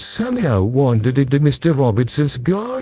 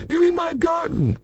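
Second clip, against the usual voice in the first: mild angry shout; 3 dB quieter than usual. Acted. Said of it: "shouted an angry voice".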